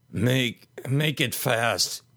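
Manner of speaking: weak, breathless plea, drawn out; gasping. Acted. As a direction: force it out on almost no air. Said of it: "he gasped".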